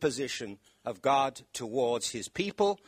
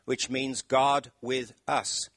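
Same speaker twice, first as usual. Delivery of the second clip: slow and deliberate; slower than usual. Shown as a demonstration. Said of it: "one word".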